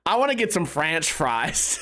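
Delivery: French said as "franch", rhyming with ranch; playing on the slip. Real, not acted. Comedian milking own slip for a laugh, "franch" for French. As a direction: turn French into "franch" before fries. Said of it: "I'm still laughing at French".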